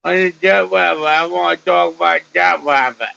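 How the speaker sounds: garbled words, mouth full of marbles; mock speech impediment, mumbled and slurred. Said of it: "'Cause I got marbles in my mouth".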